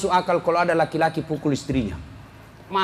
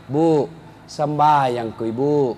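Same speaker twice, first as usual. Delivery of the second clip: gentle reminder; 6 semitones lower, slower than usual. Retold or imitated. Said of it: "Sudah, halus dulu".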